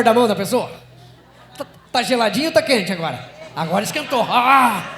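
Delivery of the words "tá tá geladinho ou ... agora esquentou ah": louder, laughing along with the room; real laughter. Real, not acted. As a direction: laugh through the words. Audience holding hands, laughter.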